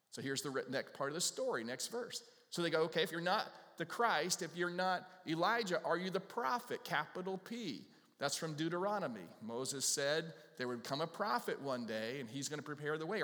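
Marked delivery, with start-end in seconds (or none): 2.8-7.9 higher, pushy questions; pressing leaders. Acted. Leaders grilling John, higher and pushy. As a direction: keep pressing him for an answer.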